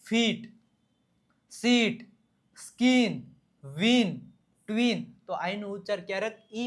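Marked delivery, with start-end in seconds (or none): 0.0-5.0 ફીટ, સીટ, સ્કિન, વિન, ટ્વિન spaced out, each on an ee-like vowel; demonstrated i sound. Shown as a demonstration. Teacher drills the i sound, ફીટ to ટ્વિન word by word. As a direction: model ફીટ to ટ્વિન one word at a time. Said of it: "આઈનો ઉચ્ચાર ઈ ક્યારે થાય".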